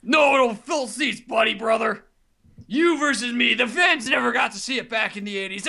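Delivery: gravelly wrestler promo; over-the-top wrestling promo; Hulk Hogan voice. Acted.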